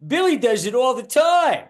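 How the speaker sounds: a busted driver pointing at someone else; mock indignant protest. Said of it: "And the guy goes".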